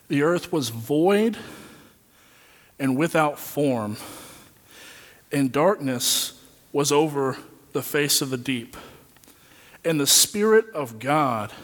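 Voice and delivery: unhurried reading of scripture, each phrase held apart; slow scripture recitation. Acted. Preacher recites Genesis to the congregation, slowly and solemnly. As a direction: let the verse breathe, slowly and reverently.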